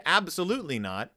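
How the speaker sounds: ordinary talk, nothing marked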